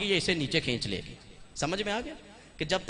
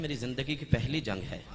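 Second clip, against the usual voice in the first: smiling; 4 semitones lower, 6 dB quieter than usual. Acted. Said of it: "Abbas मुस्कुरा के कहते हैं".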